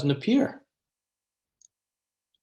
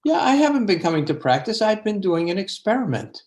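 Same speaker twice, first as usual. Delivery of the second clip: light-hearted; 5 semitones higher, faster than usual. Retold or imitated. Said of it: "with such a light heart".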